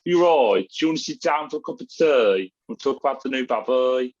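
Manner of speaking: put-on light, fast Birmingham accent, a stereotype sent up; lightly put-on Brummie voice, teasing the stereotype; mock Brummie accent. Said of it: "She's not gonna be walking around going".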